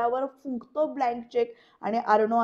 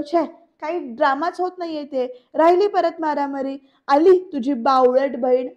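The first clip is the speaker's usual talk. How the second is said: loud taunt; 2 semitones higher, 7 dB louder than usual. Retold or imitated. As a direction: scoff at him loudly. Rajesh चिडवत बहिणीला नावे ठेवतो. (मोठ्याने तुच्छतेने टोमणा)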